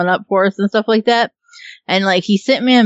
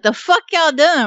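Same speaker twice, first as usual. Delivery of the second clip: confused latecomer; 8 semitones higher than usual. Retold or imitated. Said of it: "be like".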